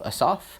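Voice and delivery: "Asaph" as uh-SOFF, questioning lift; unsure pronunciation. Shown as a demonstration. Teacher retries a Bible name, questioning "Asaph" as uh-SOFF. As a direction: weaken the first vowel of "Asaph": uh-SOFF?. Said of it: "I'm probably saying it wrong".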